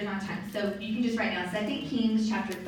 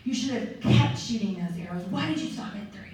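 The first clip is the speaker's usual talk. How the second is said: mild mock rage. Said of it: "The prophet's raging out".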